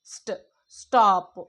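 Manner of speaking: "స్ట్" sounded out, then "స్టాప్" slow and loud; consonant cluster demo. Shown as a demonstration. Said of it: "రెండు కంటే ఎక్కువ sounds ఇస్తది". ("స్ట్, స్టాప్" సాగదీసి, గట్టిగా)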